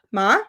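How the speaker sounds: "ma" glides upward like a question; rising tone ma. Shown as a demonstration. Teacher shows the rising tone to the class. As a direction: lift the pitch through "ma". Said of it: "if you go up".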